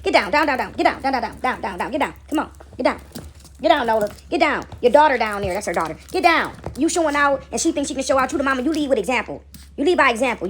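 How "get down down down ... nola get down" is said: rapid-fire repeated commands to dogs; real, firm dog scolding. Real, not acted. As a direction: order the dogs off, insistently.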